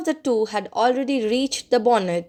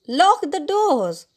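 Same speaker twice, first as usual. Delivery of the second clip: high, slow, drawn-out command; insistent shout; 6 semitones higher, slower than usual. A narrator's reading. Father repeating his order to the family, insistent shout. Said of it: "he shouted".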